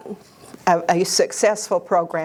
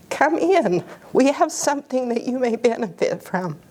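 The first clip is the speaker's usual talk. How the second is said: teary; 6 semitones higher than usual. Real, not acted. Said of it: "Sorry, I don't know why I'm teary".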